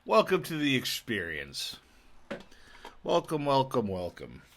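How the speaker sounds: high, loud theatrical greeting; grand announcer voice. Acted. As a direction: boom it out like a showman. Podcast host's grand put-on intro.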